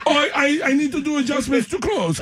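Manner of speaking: high, flustered costumer voice; costumer impression. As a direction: mimic the costumer fussing over the clothes. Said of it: "she goes".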